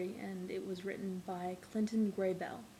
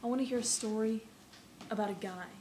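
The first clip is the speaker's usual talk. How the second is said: measured storytelling with lifted openings and falling phrase ends; dramatic monologue recital. Acted. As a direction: recite it like a wistful wish for stories. Performs a second, poetic monologue.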